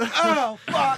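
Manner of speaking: lightly voiced Indian accent; a hint of Indian accent. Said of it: "Indian accent".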